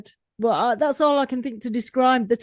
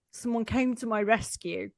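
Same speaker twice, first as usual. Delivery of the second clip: whisper; 6 dB quieter than usual. Real, not acted. Unvoiced whisper measured.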